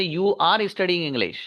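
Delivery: slow, word-by-word "Are you studying English?" while writing on the board; slow dictation. Shown as a demonstration. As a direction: dictate each word slowly for the class. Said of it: "तो असल sentence है". (बोर्ड पर लिखते हुए धीरे-धीरे बोलना)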